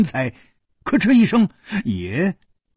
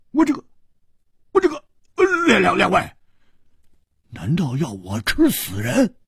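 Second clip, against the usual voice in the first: laughing; 7 semitones higher than usual. A narrator's reading. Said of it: "大笑着说".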